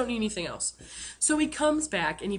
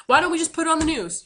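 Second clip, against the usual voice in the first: sarcastic; 5 semitones higher, 5 dB louder than usual. Retold or imitated. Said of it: "you know".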